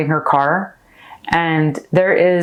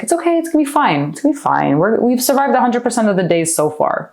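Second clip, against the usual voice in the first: put-on soothing a kid; 3 semitones higher than usual. Adult self comforting little Laura, gently soothing. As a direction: reassure her it will all be fine. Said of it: "you gotta calm that little kid down".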